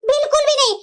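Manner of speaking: put-on a panicked old woman backing off; mother-in-law. Mother-in-law hastily refuses.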